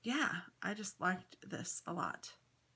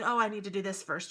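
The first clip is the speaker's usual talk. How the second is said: self quote; 5 dB louder, faster than usual. Retold or imitated. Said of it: "I keep saying".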